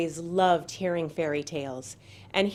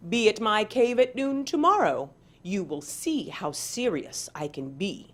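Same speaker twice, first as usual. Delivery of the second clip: threatening Armadillo. Acted.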